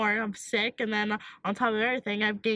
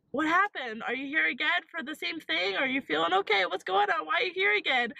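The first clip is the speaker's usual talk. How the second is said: higher-pitched run of questions; imitated questioning doctor; 5 semitones higher than usual. Doctor's surprised questions acted out.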